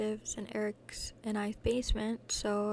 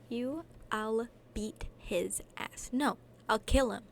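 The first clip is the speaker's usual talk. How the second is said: protective brother threat. Acted.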